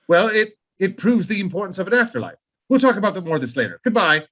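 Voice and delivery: lightly faked British accent; a hint of a British caller; bad British accent. Kubrick pressing King, light British accent. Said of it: "terrible British accent".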